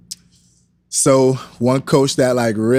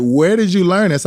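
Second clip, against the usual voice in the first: amazed question; 7 semitones higher than usual. Retold or imitated. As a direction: ask it in disbelief, pitched up. Amazed at coach's moves.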